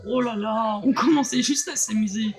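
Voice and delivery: méchant théâtral, fort et moqueur; mustache twirling villain. Acted. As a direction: gloat like a cartoon villain. Le méchant s'enfuit en ricanant. (méchant de dessin animé qui ricane)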